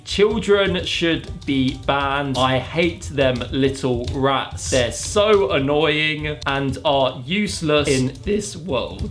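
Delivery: very slow, deliberate dictation; typing aloud. Real, not acted. YouTuber testing AI with fake quote, slow dictation. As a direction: drag each word out while typing.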